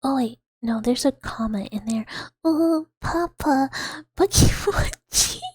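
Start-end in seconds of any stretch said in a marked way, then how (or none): 2.4-5.4 higher, louder, playful voice reading donations; character voice reading chat. Acted. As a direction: read it in a bright silly character voice. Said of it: "We're getting in character".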